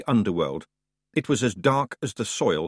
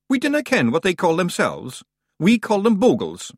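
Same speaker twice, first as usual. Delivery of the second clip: brisk, higher Scots brogue for the wee man; Scottish Feegle voice; 8 semitones higher, 4 dB louder than usual. A narrator's reading. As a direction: play the cocky little Scot. Rob Anybody voiced in Scots.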